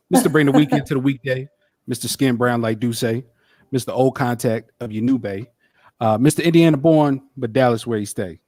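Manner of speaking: rhythmic rhyming introduction; chant-like hype-man intro; hyping up his friend with a rhyming intro. Acted.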